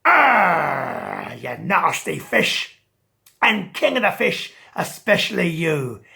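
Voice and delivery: loud, grumbling retreat; a touch of a sore loser; sulky shark. Acted. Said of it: "and he said".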